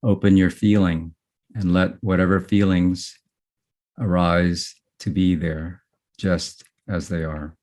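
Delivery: unhurried meditation guiding with long pauses between phrases; guided meditation. Real, not acted. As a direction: guide gently, letting each phrase settle before the next.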